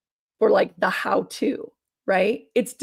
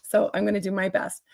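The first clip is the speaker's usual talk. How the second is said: hoarse, tired voice after a weekend of talking; strained voice. Real, not acted. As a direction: speak through a strained voice. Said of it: "I'm sorry if my voice is strained".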